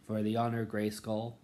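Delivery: proud, ringing battle cry; heroic transformation call. Retold or imitated. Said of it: "where she goes".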